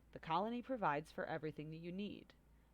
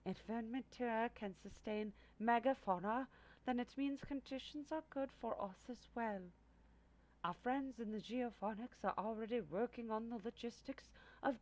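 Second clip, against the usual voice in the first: weedy voice; 5 semitones higher than usual. Acted. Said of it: "in her weedy voice".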